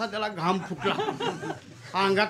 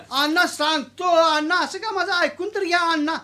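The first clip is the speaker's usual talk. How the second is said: desperate plea; 8 semitones higher, 5 dB louder than usual. Acted. Peon pleads loudly.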